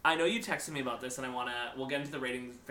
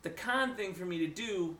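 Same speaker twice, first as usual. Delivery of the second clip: menacing killer; 3 semitones higher than usual. Retold or imitated. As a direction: draw it out, mildly imitating a backwoods killer. Acting out the killer addressing victim.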